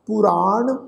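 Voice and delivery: word-by-word scripture recitation; recitation demo. Shown as a demonstration. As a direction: recite each word apart, with pauses. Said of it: "ਇੱਕ ਵਾਰ ਫਿਰ ਤੋਂ ਸੁਣੋ ਜੀ".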